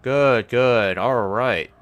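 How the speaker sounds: loud relieved cheer; shouting orders over battle. Real, not acted. Relief after avoiding massacre.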